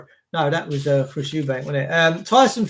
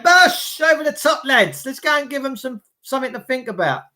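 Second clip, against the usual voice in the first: mock police charge; 5 semitones higher than usual.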